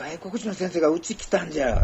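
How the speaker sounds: 広島弁で得意げに; Hiroshima dialect. Shown as a demonstration. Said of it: "広島弁で言うとき".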